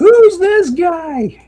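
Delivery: mock shrill, very high screech with guy drawn out. Imagining a caller's reaction to the repeated phone calls: imitating someone screaming. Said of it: "somebody ... is screaming".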